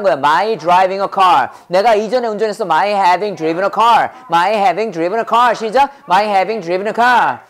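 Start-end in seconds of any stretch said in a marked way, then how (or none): 2.6-5.5 brisk model phrase for students to repeat; quick chunk drill. Shown as a demonstration. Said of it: "말 빨리 하니까 못 따라오지". 6.1-7.4 brisk model phrase for students to repeat; quick chunk drill. Shown as a demonstration. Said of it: "말 빨리 하니까 못 따라오지".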